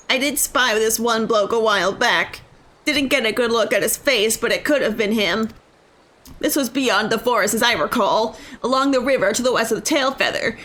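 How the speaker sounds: lightly voiced British local telling what he saw; steady storytelling with a put-on British lilt; game character, recounting. Game character recalling a lad in the forest, lightly accented recounting.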